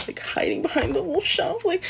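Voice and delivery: half-whispered, rising into a squeaky hush; furtive hush. Retold or imitated. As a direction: say it as if hiding. Mimics the manager hiding, furtive.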